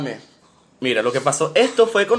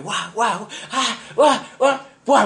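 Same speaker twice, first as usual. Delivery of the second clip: rising yelps of losing balance; imitated stumbling yelps; 5 semitones higher, much slower than usual. Recalls running after the kite and falling, yelping. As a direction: act out a stumble in noises.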